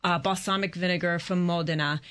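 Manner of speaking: Modena said in Italian accent; Italian accent slips into Modena. Real, not acted. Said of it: "it's got this fabulous Italian accent".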